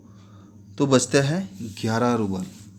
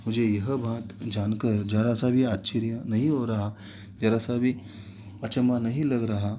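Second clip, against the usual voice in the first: angry trembling. Acted. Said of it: "क्रोधित के कारण कांपते हुए".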